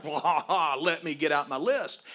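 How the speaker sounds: loud, mock-triumphant laugh into the words; hammed-up eagerness; eager problem solver. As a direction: jump in with the grand solution. Acts himself as eager problem solver.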